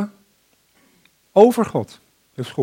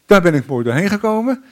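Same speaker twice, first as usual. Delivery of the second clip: higher, louder self-congratulating relief; mock relief; 4 semitones higher, 7 dB louder than usual. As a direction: puff out an exaggerated, lucky-me sigh of relief. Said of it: "niet denken van".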